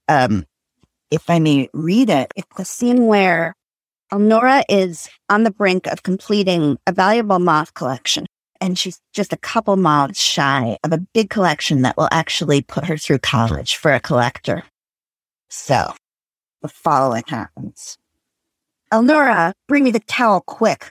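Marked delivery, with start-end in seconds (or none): 4.1-18.0 reading a novel aloud with light character voices; story reading. Acted. Host reading a novel aloud to co-hosts, story narration. 18.9-20.9 crying out. Acted. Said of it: "cried Missus Comstock".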